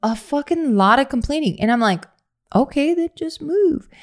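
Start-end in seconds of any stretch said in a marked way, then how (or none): 2.6-3.9 blunt dismissive. Retold or imitated. Answering complaining people.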